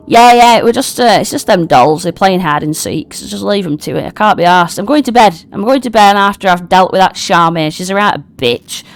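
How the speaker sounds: lightly voiced fed-up goblin; a touch of exasperated goblin; grumpy goblin. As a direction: grumble irritably, starting loud. Voicing grumpy goblin Bile.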